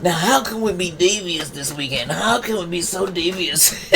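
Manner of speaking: soft, hushed plotting; quiet devious council whisper; scheming council. Pretend. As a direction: murmur like villains scheming. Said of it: "they's like".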